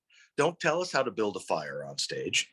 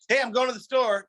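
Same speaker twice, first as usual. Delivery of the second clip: partner's line; 12 semitones higher, 4 dB louder than usual. Retold or imitated. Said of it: "It's like".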